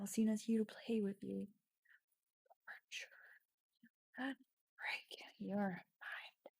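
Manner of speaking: creepy vampire whisper; menacing whisper. Acted. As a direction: whisper it like a threat in the dark. Reading the vampire's menacing line.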